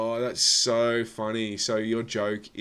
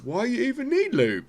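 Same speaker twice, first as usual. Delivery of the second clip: put-on shrill angry girlfriend. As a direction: screech it like an outraged wife. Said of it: "She was like".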